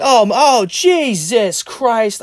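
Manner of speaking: loud, high anguished cursing; re-enacted exasperated wail; upset with oneself. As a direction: cry out slowly, dragging the words in dismay. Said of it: "I'm so upset with myself".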